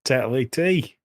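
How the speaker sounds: mock Yorkshire accent. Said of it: "That's Yorkshire".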